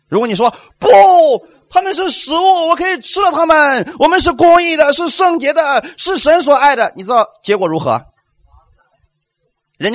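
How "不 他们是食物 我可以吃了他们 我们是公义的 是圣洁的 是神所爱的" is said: high, confident proclamation; triumphant believer's claim; bold declaration. Retold or imitated. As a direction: declare it boldly with faith. Voicing bold faith declaration.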